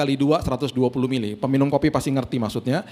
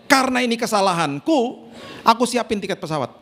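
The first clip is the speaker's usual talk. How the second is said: higher friend's voice breaking into laughter; friend laughing; 7 semitones higher than usual. Retold or imitated. Friend on the phone admitting her mistake, laughing higher. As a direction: laugh through the apology, pitched up. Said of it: "istri saya ditelepon sama temennya".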